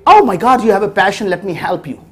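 mock delight of a doting dad; mock gushing parent. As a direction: ham up the overeager parent a little. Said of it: "And I could have said".

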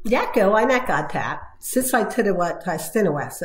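words spoken in reverse order, like "Jacko"; backwards speech. Shown as a demonstration. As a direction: say each word backwards, as in "Godpat". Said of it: "do it speaking backwards".

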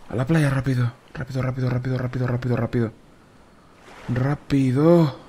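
rushed, urgent urging; urgent hurry. Real, not acted. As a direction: hurry yourself along, urgent. Urgent rush to the beach.

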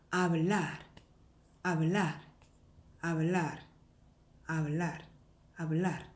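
"hablar" ending in a light, unrolled r; weak final r. Shown as a demonstration. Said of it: "되게 약한 소리를 가져요".

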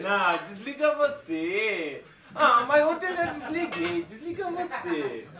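giggly late night call. Acted. Lovey "you hang up" phone game.

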